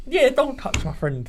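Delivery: slow, high mock defence; high slow mimic. Guest imitating the host's fake-protective line, slow and high. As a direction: drag it out high like a mock bodyguard. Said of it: "He done the whole".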